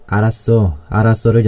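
calm someone down; soothing. Acted. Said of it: "누군가를 다독이듯".

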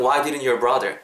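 "didn't your" run together, t softened away; linked sounds. Shown as a demonstration. Teacher showing linking with brother example, "didn't your" joined. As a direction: slide "didn't" straight into "your". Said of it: "다 이렇게 음이 연결되면서".

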